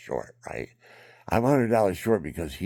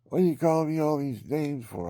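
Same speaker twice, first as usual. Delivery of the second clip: indignant retort; 11 semitones higher, 6 dB louder than usual. Retold or imitated. Thief's retort, retold.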